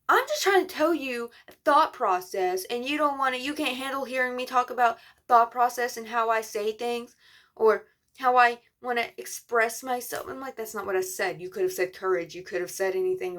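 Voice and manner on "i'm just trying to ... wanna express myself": mild mock yell, slightly raised pitch; retold yelling. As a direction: imitate someone yelling, without full volume. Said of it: "he started yelling at me".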